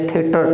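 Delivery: थिएटर as theh-tur, r sounded; short e and final r in थिएटर; wrong pronunciation. Shown as a demonstration. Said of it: "ऐसा नहीं है".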